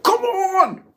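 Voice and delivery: retold cry of pain and annoyance; exasperated yell. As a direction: blurt it as if just bopped on the nose. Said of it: "that initial reaction, I'm like".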